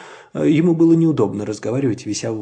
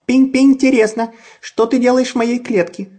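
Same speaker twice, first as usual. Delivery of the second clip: much higher, louder chick voice; little voice; 11 semitones higher, 5 dB louder than usual. A narrator's reading. Chick Tutta greets the fox in a high chirpy voice. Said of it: "чей-то голосок".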